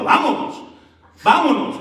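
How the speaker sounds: high, loud repeated mock shout; imitated yell. Churchgoer shouting at every sermon, imitated yell. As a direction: cry out like the interrupting congregant. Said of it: "pegaba el grito".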